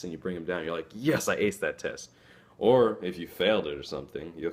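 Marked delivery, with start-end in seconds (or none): 0.9-2.1 excited. Shown as a demonstration. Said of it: "rather than saying".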